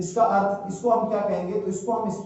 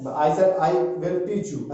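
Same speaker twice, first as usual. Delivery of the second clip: slow careful English; much slower than usual. Shown as a demonstration. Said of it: "ऐसा तो नहीं बोलूंगा मैं किसी से बात कर रहा हूं".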